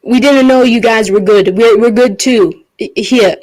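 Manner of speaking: lightly yelled, stumbling apology; mild in-character yell. Acted. Adventurer apologizing to the ghosts, mildly yelled out. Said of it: "and I just yell out".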